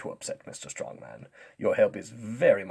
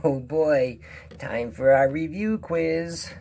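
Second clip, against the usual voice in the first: excited cartoon voice; 7 semitones higher, 6 dB louder than usual. SpongeBob announces the review quiz, high and excited. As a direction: cry out with rising excitement.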